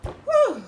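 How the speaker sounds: high loud joyful woo; sudden high whoop of release; excited whoop. Real, not acted. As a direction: let out a big cheering whoop. Overwhelmed, cheering herself on.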